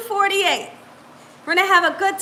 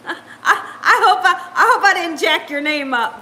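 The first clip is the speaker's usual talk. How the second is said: laughing. Real, not acted. Laughs at mangling a viewer's name.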